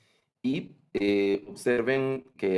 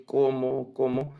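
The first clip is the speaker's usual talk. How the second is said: exclamation; 5 semitones higher than usual. Shown as a demonstration. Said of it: "está en un tono de admiración".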